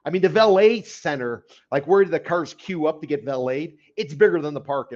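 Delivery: dry sarcastic jab. Real, not acted. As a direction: say it with a sarcastic edge. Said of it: "Now, I'm being a little sarcastic".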